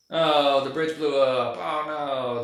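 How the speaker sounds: loud, drawn-out "oh" at the start; feigned alarm at a movie disaster; mock dismay. Mocks viewer reacting to disaster.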